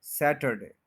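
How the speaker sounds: सैटरडे with a clear hard t; Saturday with T. Shown as a demonstration. Teacher giving the correct word, सैटरडे with hard t. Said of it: "ठी के साथ बोलेंगे".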